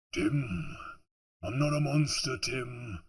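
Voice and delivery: lightly imitated actor's line; a light impression of a film line; Peter Serafinowicz. Reader imitating an actor's line in space, light impression. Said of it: "Peter Serafinowicz".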